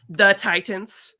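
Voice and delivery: slow, over-clear, rising at the end; patient slowed-down clarification to a store clerk; slow emphatic repeat. Retold or imitated. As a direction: spell it out for someone who didn't hear, slowly. Spelling it out for clerk.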